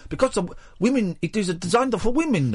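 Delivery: inventor's voice. Retold or imitated. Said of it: "Stop doing the voice".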